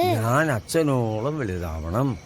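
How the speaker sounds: slow, measured line for repeating; verse recitation. Acted. Grandfather teaching a child a verse, slow recitation.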